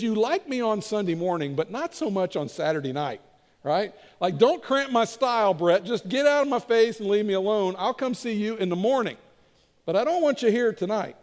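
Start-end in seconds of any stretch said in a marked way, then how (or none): 4.4-11.1 mildly irritated diner, a little raised; annoyed brush-off. Acted. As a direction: shoo away an unwelcome guest, half in earnest. Acting out annoyed diner at table.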